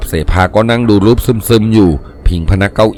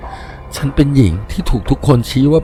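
softer, grieving apparition voice; slow, trembling sorrow; 5 dB quieter than usual. Acted. Wronged ancient woman confiding in painter, soft trembling sorrow. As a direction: lament softly with a slight tremble. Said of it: "เธอพูดช้าๆ น้ำเสียงสั่นๆ อย่างเสียใจ".

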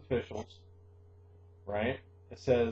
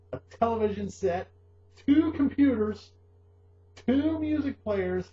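excited bragging; 7 semitones higher, 4 dB louder than usual. Real, not acted. Listing his smuggled-style gadgets.

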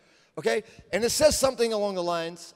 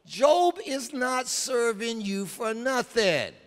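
sneering Satan; 6 semitones higher, slower than usual. Acted. Satan voiced accusing God.

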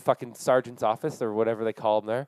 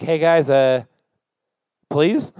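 desperate plea; 5 dB louder, slower than usual. Retold or imitated. Stranded man loudly begging the police for help. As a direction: beg them, voice straining up.

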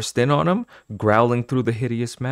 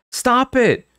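high, loud angry shout; angry but scared; 6 dB louder than usual. Acted. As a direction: shout it angrily. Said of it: "His voice sounded angry".

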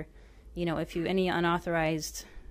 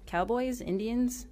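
usual speaking voice

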